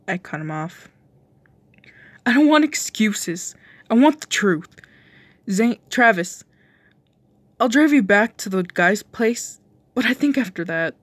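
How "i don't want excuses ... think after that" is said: louder, higher stern demand; firm and upset. Acted. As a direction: insist on the truth. Demanding truth from partner.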